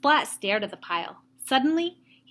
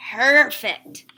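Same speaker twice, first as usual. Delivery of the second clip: Perfect, called out loud; thrilled cry of discovery; delighted cry; 8 dB louder than usual. Acted. Splat finding his pumpkin, loud delighted cry. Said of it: "Splat cried".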